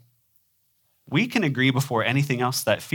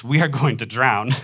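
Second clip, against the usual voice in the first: mock yell in a slightly nasal Midwestern voice; half-hearted yell, a touch Midwestern and nasal; nasally Midwestern yell. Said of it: "if I yell out in my Midwestern nasally voice".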